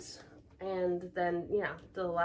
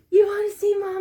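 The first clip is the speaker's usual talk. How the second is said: put-on high squealing baby talk; 12 semitones higher, 12 dB louder than usual. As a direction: coo it like talking to a baby. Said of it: "That's my baby voice".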